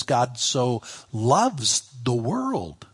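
"loves" and "world" drawn out; deliberate weight on "world"; stress on WORLD. Shown as a demonstration. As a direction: linger on "world" as the point. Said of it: "Now you gotta stop here. The world".

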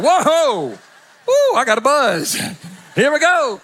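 high, loud mock recoil; mock reeling from breath. Pastor recoils from the drunk's breath, loud and high. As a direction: act knocked back by the fumes. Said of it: "I was like".

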